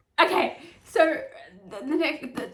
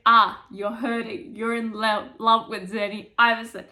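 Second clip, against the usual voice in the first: teasing brother; 8 dB louder than usual. Retold or imitated. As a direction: stretch it out like you've caught him.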